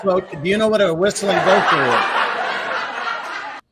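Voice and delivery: asked while still laughing at the last joke; laughing through it. Real, not acted. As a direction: giggle out the question. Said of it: "I'm slow on that laugh track".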